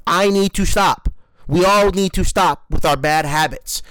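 frustrated vow to quit a habit; mad at myself. Real, not acted. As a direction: scold yourself into quitting. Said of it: "I'm really mad at myself".

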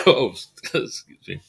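coughing and choking on saliva. Real, not acted. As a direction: clear throat after choking. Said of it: "I'm choking on my own saliva".

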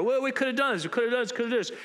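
a touch of indignant griping, repeated; mock scolding. Disciples grumbling at Mary about the waste, mild mock scolding. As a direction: nag her, lightly voiced disciples. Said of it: "They're scolding her".

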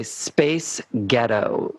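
slow Scottish "Space Ghettos"; Scottish accent. Shown as a demonstration. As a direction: say it Scottish, slowly. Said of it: "with a Scottish accent".

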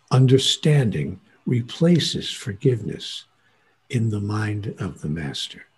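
slow, weighty maxim, each word set down; slow emphatic. Shown as a demonstration. Teacher repeating a motto for the audience, slow and weighty. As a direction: spell the motto out slowly so it sticks. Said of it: "Write that on your bathroom mirror".

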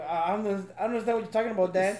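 fast, prim denial; mock proper innocence. Kid denies cussing to his dad, in a fast mock proper voice. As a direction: rattle it off like a kid playing innocent. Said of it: "They're all proper".

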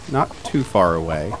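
usual speaking voice

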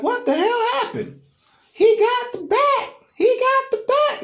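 very high, loud frantic voices; panicked exchange. Retold or imitated. Tim and Alan fleeing Joseph, very high frantic shouts. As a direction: blurt it out in panic.

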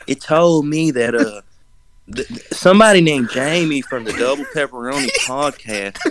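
lightly put-on Savannah storyteller; Savannah accent. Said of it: "Yes, Savannah accent".

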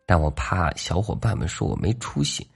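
put-on a bashful young wolf admitting something; little wolf voice. Little wolf confessing a secret.

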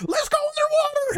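high, urgent yell; hammed-up cry of alarm; alarmed call. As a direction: call out to flee in mock panic. Panic as the rock comes down.

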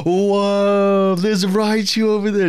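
high, loud mock awe; imitated excited screaming. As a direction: act out a player screaming at a sighting. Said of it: "everyone's screaming at Pokemon".

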